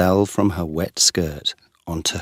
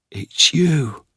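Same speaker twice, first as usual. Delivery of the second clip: higher, startled recognition; surprised; 10 semitones higher, 4 dB louder than usual. A narrator's reading. Geoffrey recognises the woman in the dark: surprised. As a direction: realise who she is with a jolt. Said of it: "said Geoffrey in surprise".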